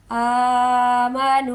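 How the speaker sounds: आमनू with the final u stretched one count; long vowel drawn. Shown as a demonstration. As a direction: draw out the nu in आमनू. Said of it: "one count खींच के". (आमनू में नू को खींचें)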